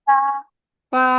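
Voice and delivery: flat level পা; level পা for repeating; first tone. Shown as a demonstration. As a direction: hold পা level. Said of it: "আমার সাথে repeat করেন".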